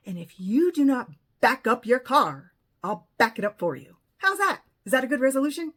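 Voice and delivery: loud, forceful mock ultimatum; emphatic, fed-up retelling of a warning; retold firm ultimatum. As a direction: lay down a retold threat, rising to a challenge. Retold ultimatum to woman yelling.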